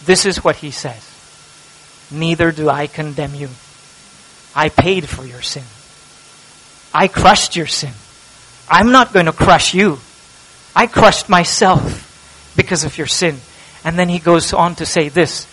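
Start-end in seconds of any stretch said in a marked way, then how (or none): 2.1-13.4 tender Jesus voice. Acted. Jesus gently forgiving the sinner, tender and soft. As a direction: speak mercy quietly, as if forgiving.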